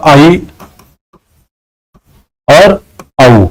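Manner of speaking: आई and औ said drawn out; vedic pronunciation. Shown as a demonstration. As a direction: sound out आई and औ carefully. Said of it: "वैदिक संस्कृत में इसका उच्चारण किया जाता था". (आई और औ को खींचकर बोलना)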